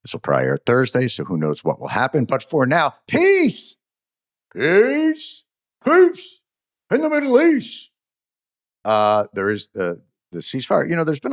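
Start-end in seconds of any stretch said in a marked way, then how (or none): 3.1-7.9 high, hammed-up jubilant shout; triumphant cry. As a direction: cheer the news like a victory. Mock triumphant announcement.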